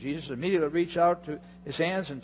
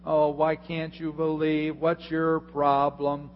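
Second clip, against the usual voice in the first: mock scolding; slower than usual. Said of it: "we pastors love to pick on Peter".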